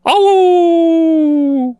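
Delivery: long high playful wolf howl. Pretend. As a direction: howl like a hungry wolf at the moon. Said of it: "내가 오늘 늑대로".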